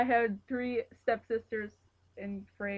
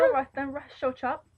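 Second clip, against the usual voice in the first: attempted English accent, louder start; 5 dB louder than usual. Shown as a demonstration. Player trying out an English accent on request, hammed-up English accent. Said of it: "tell it in an English accent".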